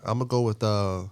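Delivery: soft, measured news-reporter read. Pretend. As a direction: announce it like a calm reporter. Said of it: "He go with the reporter voice again".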